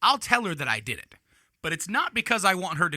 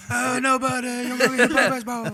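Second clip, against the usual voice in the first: high, laughing mock holler; mock calling out; 8 semitones higher than usual. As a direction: call out in a silly raised voice. Joke shouted warning about baseball.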